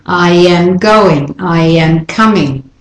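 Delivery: I am linked as I-yam in each phrase; flowing y glide. Shown as a demonstration. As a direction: join I am smoothly before going and coming. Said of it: "It's not as flowing".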